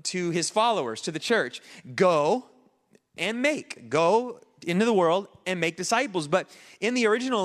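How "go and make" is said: two separate commands; stressed command words. Shown as a demonstration. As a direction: hit Go, pause, then make. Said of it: "two commands in this verse".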